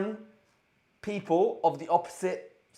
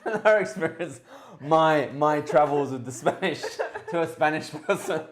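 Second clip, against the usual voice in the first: laughing; 4 semitones higher than usual. Real, not acted. Laughing while teasing.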